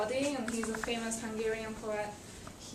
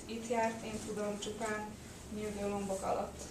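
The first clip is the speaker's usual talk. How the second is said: measured Hungarian poetry reading; poem recitation. Acted. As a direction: recite the verse phrase by phrase, with small pauses.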